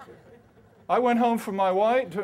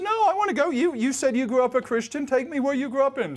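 much higher, louder insisting; insistent; 7 semitones higher, 4 dB louder, faster than usual. Retold or imitated. Insisting to his wife he wants to go to her church. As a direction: plead to go.

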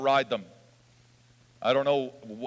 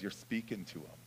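low, very soft, understated reply; hushed retold reveal; 5 semitones lower, 14 dB quieter than usual. Preacher voicing Jesus revealing himself to healed man, hushed. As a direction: let it drop almost to nothing.

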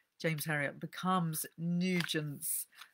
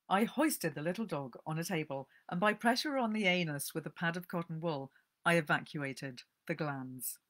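calm storyteller reading aloud; gentle book-reading voice; story narration. A narrator's reading. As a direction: read it like a cosy tale.

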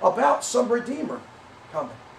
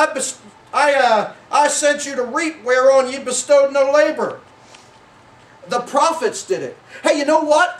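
full-force preaching. Acted. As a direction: preach it out, building fervour.

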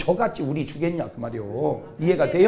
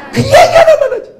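high, loud laughing burst; preacher cracking up at his own joke; laughing squeal; 12 dB louder than usual. Real, not acted. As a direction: burst out laughing mid-sentence.

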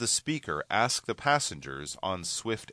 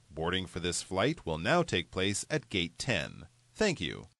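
airport announcement. Acted. Flight delay gate announcement.

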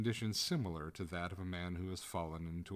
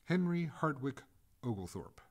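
ghost calls his full name, high and louder; gurgling ghost; 7 semitones higher, 3 dB louder than usual. Acted. Ghost addresses the master by full name, raised and gurgling. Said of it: "said the ghost in a gurgling voice".

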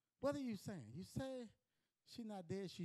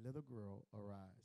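soft call; 12 semitones lower, 9 dB quieter than usual. Retold or imitated. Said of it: "and called, saying".

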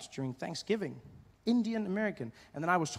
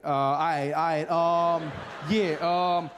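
mock-awkward stalling, louder; lightly acted flustered pause; awkward hesitation; 8 dB louder, slower than usual. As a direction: hem and haw like you're stuck. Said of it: "and he's like".

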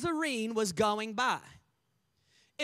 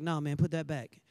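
parent in store; 9 semitones lower than usual. Acted. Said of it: "you be like".

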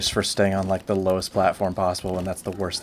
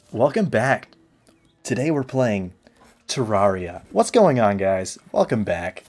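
hyped YouTuber intro voice; clickbait video narrator; 3 dB louder, slower than usual. Shown as a demonstration. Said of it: "the YouTuber voice".

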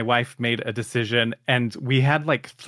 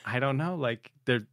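mock worried; 3 semitones higher, faster than usual. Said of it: "stick a knife in it a little bit and twist it".

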